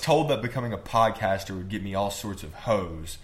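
lightly hammed-up moderator accent; a hint of mock self-important nerd; Discord moderator voice. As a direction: complain in a goofy put-on voice. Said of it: "do the Discord moderator voice".

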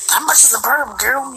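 teasing voice. Retold or imitated. Teasing friend in high voice.

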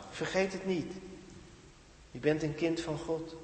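soft hushed "Je bent een kind van God"; whispered reminder. Shown as a demonstration. Preacher showing how the Spirit whispers "Je bent een kind van God", hushed. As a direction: drop to a hush, as if murmured in your heart. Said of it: "En wat dat fluistert".

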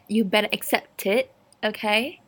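lightly put-on British accent; unplanned British accent on a mock demand. Real, not acted. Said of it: "I said it in a British accent".

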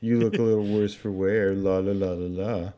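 breeze in with a put-on chirp; intruding busybody. Bev interrupting the two men, put-on singsong.

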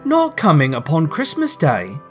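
mild disbelief, spirits sinking; a touch of crestfallen astonishment; dismayed surprise. Acted. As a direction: question it as a let-down father. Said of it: "a sudden declension in his high spirits".

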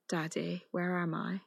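soft, hushed creepy child, retold; creepy whisper. Dead daughter returns to her father, creepy whisper. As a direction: lightly imitate an eerie little whisper. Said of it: "creepily returns and whispers".

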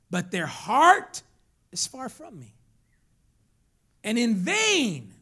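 loud key words, drawn out; forceful scripture preaching. Retold or imitated. Preacher reading Jesus' rebuke to church, forceful. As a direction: declaim it, leaning hard on key words.

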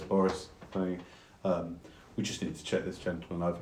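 a lightly voiced low, soft word to his men; quiet aside to mates. A captain tells his mates to check the traveller, softly.

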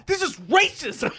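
high, slow protest cry with a laugh; mock protest. Kid in the hallway, mock outraged protest with laughter. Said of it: "some dude's like".

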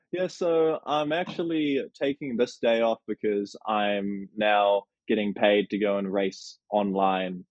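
slow, measured delivery; mock explanation. Pretend employee explaining a day off to the boss, slow mock explanation. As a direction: spell it out slowly, as if to a boss.

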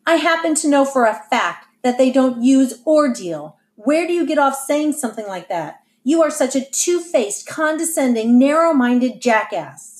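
angry shout. Acted. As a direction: yell it at him, words slowing at the end. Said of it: "Lynetta shouted".

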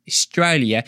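"Australia" said the Aussie way; Australian accent. Shown as a demonstration. Speaker showing off his practised accent, Australian accent. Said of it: "I've been working my Australian accent".

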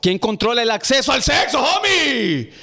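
pregunta exaltada, con la voz más aguda al final; a gritos. Real, not acted. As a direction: suelta la pregunta casi gritando, subiendo el tono. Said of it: "¿Cómo grita". (pregunta gritada)

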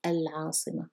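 العاصمة with a clear opening a; a pronounced. Shown as a demonstration. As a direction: start العاصمة cleanly on al. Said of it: "pronouncing the a of". (العاصمة said with its full article al)

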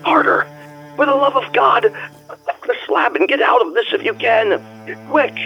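panicked, desperate warning; wild consternation. Acted. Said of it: "in a pitch of wilder consternation".

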